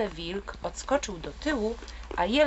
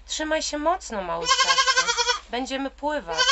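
higher, loud shout peaking on ptaszku; 8 semitones higher, 4 dB louder than usual. Acted. Deer shouting to the bird before plunging into the river, loud. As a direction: call out over the rushing river. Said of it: "krzyknął jeleń".

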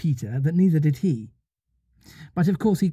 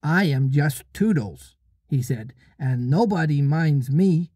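dignified. Acted. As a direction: speak with solemn dignity. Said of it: "spoke with dignity".

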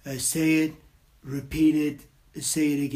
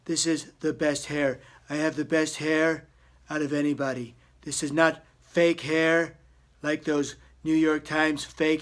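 Trump impression bragging about hair. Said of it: "Donald Trump impersonation".

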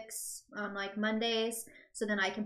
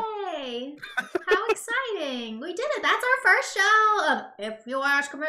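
higher, excited cartoon boy voice; a light cartoon kid voice, louder at the end; Butters voice; 7 semitones higher, 6 dB louder, slower than usual. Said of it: "you do a great Butters impression".

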